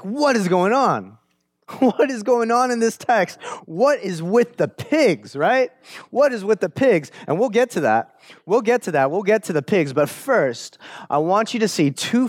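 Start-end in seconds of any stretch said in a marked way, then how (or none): 0.0-7.1 higher, laughing disbelief; bewildered. Acted. Preacher voicing the congregation's baffled reaction to the pigs, high amused disbelief. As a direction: throw up your hands in amused confusion.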